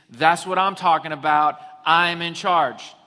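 loud, self-satisfied boast; cocky husband. Acted. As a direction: crow it like a man who has just been put in charge. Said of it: "what we hear is".

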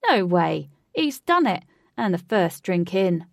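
loud amazed cheer; excited shout. A narrator's reading. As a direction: cheer like a fan. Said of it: "said another man".

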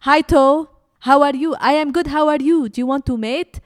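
high, loud cartoon voices; chirpy toe voices. Two toes flirting in the tomato pitch, high and loud. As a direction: squeak it like two silly toes.

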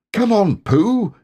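high bright call to a friend; eager call. Acted. Christopher Robin eagerly calling Pooh to come along, high and excited. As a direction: come on, let's go.

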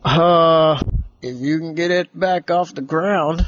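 lightly voiced woozy spaceman; hesitant character reply after a long uh. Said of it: "And the spaceman said".

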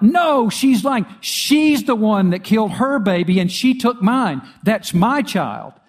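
high, loud frantic accusation; crying out accusingly. Retold or imitated. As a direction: shout her down, desperate and indignant. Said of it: "the other woman cried out".

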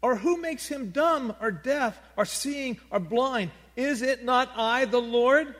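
God answering Moses, booming. Acted. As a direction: thunder it out as the Lord. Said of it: "he says".

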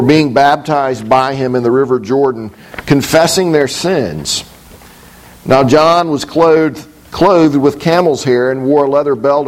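measured, even reading of the Gospel; scripture reading. Acted. Pastor reading Mark to his congregation, measured scripture reading. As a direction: read the passage aloud to the congregation, steady and unhurried. Reads Mark's gospel aloud.

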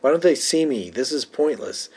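lightly voiced distressed Jenna; freaking out. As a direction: whine in frustration. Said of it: "Jenna then freaks out".

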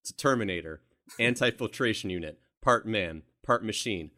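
lightly acted movie soldier reciting specs; Kyle Reese script reading. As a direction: punch out short phrases, one by one. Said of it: "he's gotta say these things".

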